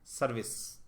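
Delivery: letters spelt one at a time, slowly; slow spelling. Shown as a demonstration. Teacher spells service slowly to test the answer. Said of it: "देखते हैं".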